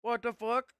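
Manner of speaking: high, loud shocked outburst. Real, not acted. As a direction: react in disbelief. Reacting to game event.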